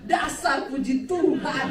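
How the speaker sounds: husband's hammed-up holy scolding; mock pious insult. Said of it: "suami saya bilang".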